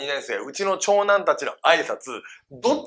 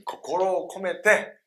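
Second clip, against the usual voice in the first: usual speaking voice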